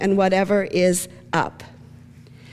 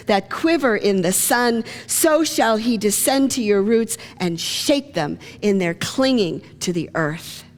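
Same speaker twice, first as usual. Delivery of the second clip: poem reading. Acted. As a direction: read the poem with weight. Reads Gibran's poem.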